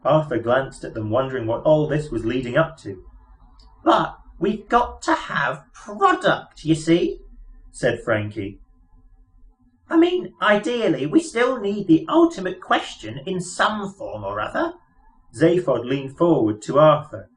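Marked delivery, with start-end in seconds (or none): 3.8-7.2 high, chirpy little mouse voice; piping mouse voice. Acted. Mouse explaining their plans to Arthur, piping high voice. 9.9-14.7 high, chirpy little mouse voice; piping mouse voice. Acted. Mouse explaining their plans to Arthur, piping high voice.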